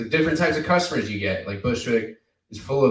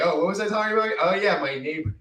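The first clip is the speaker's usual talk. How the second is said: higher, lightly spacey impression of the comic; mock dazed comic; 9 semitones higher, faster than usual. Mimicking a fellow comic losing his thread. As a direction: play the forgetful comic drifting off topic. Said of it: "And then he was like".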